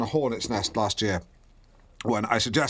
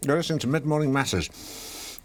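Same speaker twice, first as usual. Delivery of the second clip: ordinary delivery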